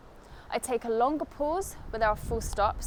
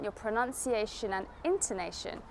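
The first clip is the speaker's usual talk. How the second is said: ordinary talk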